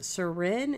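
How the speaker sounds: "Surin" with a questioning rise; tentative, rising "Surin?"; checking a pronunciation. Shown as a demonstration. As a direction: lift the end of "Surin" to ask. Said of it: "Am I saying it right that time?".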